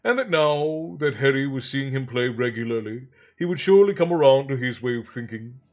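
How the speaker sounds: measured audiobook-style reading; story narration. A narrator's reading. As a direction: read the story aloud with deliberate phrasing. Reads novel aloud.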